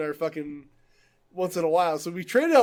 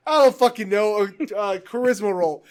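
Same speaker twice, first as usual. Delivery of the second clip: louder mock exasperation; annoyed game master; 3 semitones higher, 6 dB louder than usual. Player imitating the DM picking a roll, mock annoyance. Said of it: "gets so fucking annoyed".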